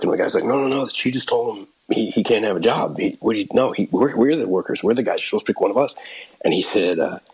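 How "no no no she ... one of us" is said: mildly worked-up objection, slightly raised pitch; indignant protest. Retold or imitated. Day laborer objecting to the boss's pick, indignant protest. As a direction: imitate a worker arguing he was passed over.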